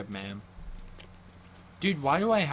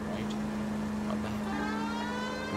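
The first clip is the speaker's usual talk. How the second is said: high, slow echo of the line; high drawn out; 10 semitones higher, much slower than usual. Pretend. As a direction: stretch it up high. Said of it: "echoing the game line".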